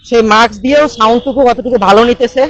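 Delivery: muffled behind a face mask; talking through a cloth mask. Real, not acted. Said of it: "আমার মুখে mask পরা আছে".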